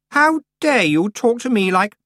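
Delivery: put-on high, loud outraged girl; how dare you, offended. A narrator's reading. Anagrama outraged.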